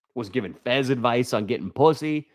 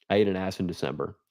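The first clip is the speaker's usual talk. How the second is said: quick softer repeat; 5 semitones lower, 5 dB quieter, faster than usual. Shown as a demonstration.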